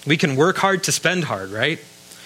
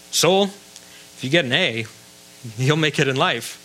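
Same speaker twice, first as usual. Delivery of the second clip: inner voice. Pretend. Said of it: "we speak to our soul all the time".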